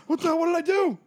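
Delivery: put-on high, panicked kid's protest; imitated freak-out. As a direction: cry out like a child wrongly in trouble. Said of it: "I freaked out".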